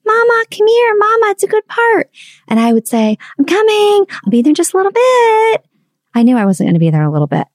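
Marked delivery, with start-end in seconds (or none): 0.0-2.1 put-on high child's voice calling from downstairs. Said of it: "she would yell out". 3.4-5.7 put-on high, carrying call to a child; calling back. Mom calling back downstairs.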